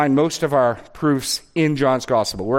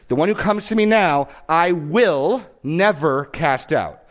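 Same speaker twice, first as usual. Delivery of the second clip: higher and louder, slow on the last words; emphatic preaching; 3 semitones higher, 3 dB louder than usual. Real, not acted. Pastor pressing the promise on listeners, emphatic and slow. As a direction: drive the promise home.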